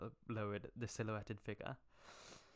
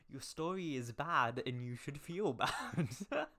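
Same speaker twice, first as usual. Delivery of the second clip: mock scolding; 5 semitones higher, 5 dB louder, slower than usual. Scolding the fanfic author.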